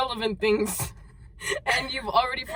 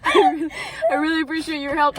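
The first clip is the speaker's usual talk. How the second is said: fighting laughter; 4 semitones higher, 4 dB louder, faster than usual. Real, not acted. Restarts reading after cracking up.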